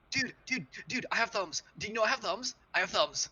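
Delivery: Nelson's voice. Acted. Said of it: "I love Nelson's voice".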